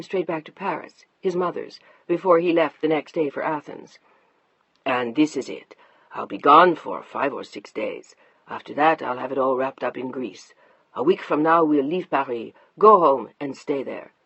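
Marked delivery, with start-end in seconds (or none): 4.9-14.1 lower, matter-of-fact; lightly voiced husband laying out plans; businesslike husband. Mark telling his wife the plan, low and even.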